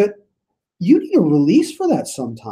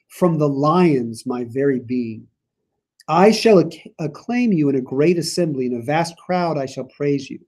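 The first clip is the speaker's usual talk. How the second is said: scripture reading; 3 semitones higher than usual. Acted. Reading the psalm aloud.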